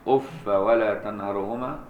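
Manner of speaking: أف with fatha, no tanween, slow; Ibn Kathir reading. Shown as a demonstration. Teacher demonstrates the Ibn Kathir reading of أف, slowly. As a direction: say أف ending in a short a. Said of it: "ابن كثير وابن عامر ويعقوب".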